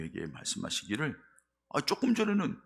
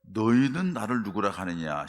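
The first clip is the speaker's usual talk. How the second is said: Jesus asking; 5 dB louder than usual. Shown as a demonstration. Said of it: "그럴 때 예수님께서".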